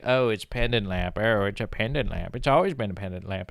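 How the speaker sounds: snob. Retold or imitated. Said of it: "a snob your entire life".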